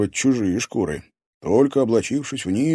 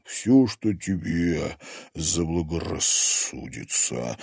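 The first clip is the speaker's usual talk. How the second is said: slow, beastly growl; 4 semitones lower, 4 dB quieter, slower than usual. Acted. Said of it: "прорычал Герман".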